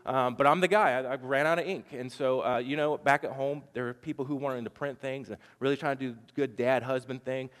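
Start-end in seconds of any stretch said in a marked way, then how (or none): 0.0-1.9 super nice apology. Retold or imitated. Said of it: "I tried to be super nice".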